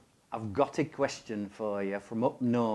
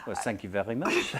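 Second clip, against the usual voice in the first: mock French accent with a laugh. Thanking co-host for praising the accent, French accent. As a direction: accept a compliment in a French accent. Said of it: "a sexy French accent like that".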